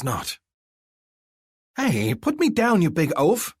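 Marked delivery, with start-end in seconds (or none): 1.8-3.5 much higher, louder furious yell. A narrator's reading. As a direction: scream it right into his ear. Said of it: "she yells in my ear".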